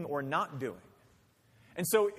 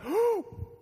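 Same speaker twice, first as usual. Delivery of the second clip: sharp high held-breath gasp; tantrum gasp; 4 dB louder than usual. Retold or imitated. Preacher mimicking a toddler's breath-holding tantrum gasp. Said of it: "and then he's like".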